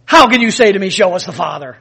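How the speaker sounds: light mock Jewish accent. Jesus questioning Philip, lightly put-on Jewish accent. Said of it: "maybe in a Jewish accent".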